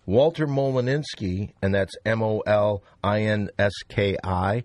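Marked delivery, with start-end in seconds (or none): 2.0-4.6 emphatic spelling. Acted.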